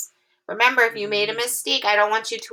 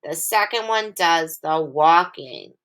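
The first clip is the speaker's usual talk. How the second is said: slow, sing-song rhyme; poem recitation. Shown as a demonstration. Teacher reciting a phonics rhyme to the class, slow sing-song. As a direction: recite it slowly like a nursery rhyme. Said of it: "this is the poem I like to remember".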